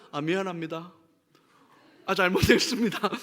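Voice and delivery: offhand, throwaway sorry with a laugh; habitual careless apology. Retold or imitated. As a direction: toss it off like a reflex. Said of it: "습관처럼 나와". (습관처럼 툭 던지는 건성 사과)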